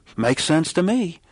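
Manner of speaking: ironic, sarcastic go-along tone. Speaker quotes a man's reply to an illustration: mock-sarcastic retelling. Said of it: "he sarcastically said".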